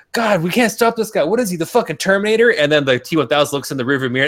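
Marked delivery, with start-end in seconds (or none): 0.1-2.5 higher, hammed-up henchman voice; mock henchman panic. Retelling the chase scene to his friend, mock panicked henchman. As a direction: play it as a panicky goon in a car chase.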